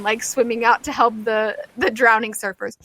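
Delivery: ordinary talk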